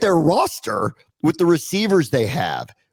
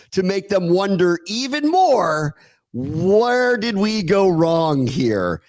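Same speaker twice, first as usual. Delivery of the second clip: sarcastic slow roast; 2 semitones higher, slower than usual. Acted.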